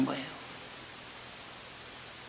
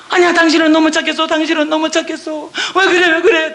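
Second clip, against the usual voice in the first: alarmed reassurance; 5 semitones higher than usual. Retold or imitated. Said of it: "우리 남편이 나한테 뭐라고 그랬어요".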